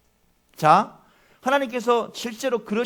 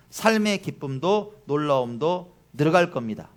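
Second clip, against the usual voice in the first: reading a commercial script aloud; preacher reading ad copy to the congregation. Shown as a demonstration. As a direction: present it like a smooth ad voiceover. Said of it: "제가 이제 한번 읽어드릴게요".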